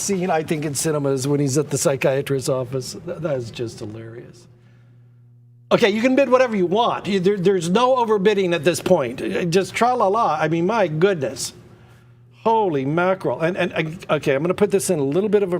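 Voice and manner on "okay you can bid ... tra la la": quick, bright auctioneer push; eager, fast urging. Real, not acted. Auctioneer urging bidders to keep going, fast and eager. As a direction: rush them into bidding.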